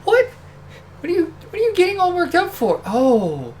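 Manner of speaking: a flustered wiseguy caught off guard; New York mobster. Acted. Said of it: "the accents actually were appropriate for this one".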